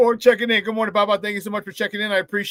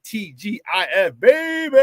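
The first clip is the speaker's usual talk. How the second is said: hype shout; slower than usual. Real, not acted. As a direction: call it out like a party chant. Reading a chat shout-out.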